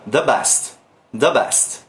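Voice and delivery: "the" with a relaxed schwa vowel in "the best". Shown as a demonstration. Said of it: "Esse the".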